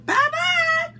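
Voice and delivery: high, loud mid-sized bear calling; middle-sized gruff voice. Acted. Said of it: "a middle-sized gruff voice".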